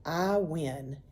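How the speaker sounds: soft, breathless, content; gasped. A narrator's reading. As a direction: gasp it out lying in the grass. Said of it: "gasped Billy".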